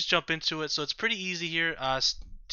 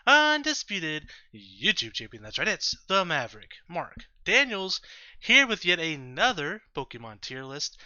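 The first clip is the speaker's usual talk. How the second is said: ringmaster. Acted. Showman intro to his channel.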